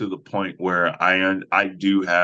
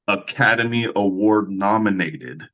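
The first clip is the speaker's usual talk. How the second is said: grand announcer intro. Shown as a demonstration. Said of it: "I love saying it like this".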